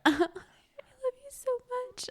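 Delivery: high, very slow crooning; mock drunk gushing. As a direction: ham up the teary confession. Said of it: "Go cry".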